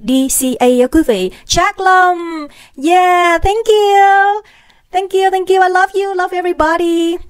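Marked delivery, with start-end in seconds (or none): 1.5-7.2 excited thanks. Real, not acted. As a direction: gush thanks at the chat. (cảm ơn hào hứng, giọng cao)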